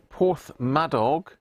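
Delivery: slow, stretched Porthmadog, said as PORTH-ma-dog with a rising end; careful Welsh place name. Shown as a demonstration. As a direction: spell out Porthmadog slowly, not sure of it. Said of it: "I don't know if that's how you pronounce it".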